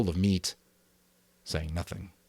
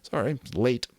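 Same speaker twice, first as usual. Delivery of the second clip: unvoiced quick apology; whispered aside; 5 semitones higher than usual. Real, not acted. Narrator apologising for a slip, in a whisper. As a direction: breathe an apology off-mic. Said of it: "aside while eating".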